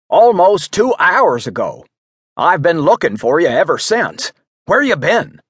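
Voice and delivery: put-on flustered old man. Frantic friend who searched two hours.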